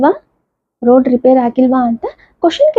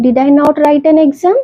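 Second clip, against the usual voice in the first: very slow, word-by-word example read; slow classroom reading of an English example; slow dictation; much slower than usual. Shown as a demonstration. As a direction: spell the sentence out slowly for students. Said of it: "teacher dictating example sentence".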